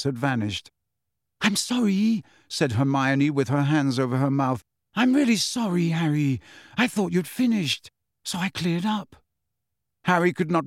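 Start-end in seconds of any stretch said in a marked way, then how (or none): 1.4-2.2 put-on high-pitched, apologetic girl's voice; high, horrified little apology; dismayed apology. A narrator's reading. 4.9-9.2 put-on high-pitched apologetic girl's voice; high, rueful explanation; dismayed apology. A narrator's reading.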